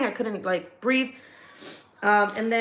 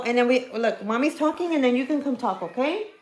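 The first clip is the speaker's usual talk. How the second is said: higher mommy voice; 3 semitones higher than usual. Real, not acted. Mom asking her child to wait, higher-pitched. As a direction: raise the pitch to gently put off a little one.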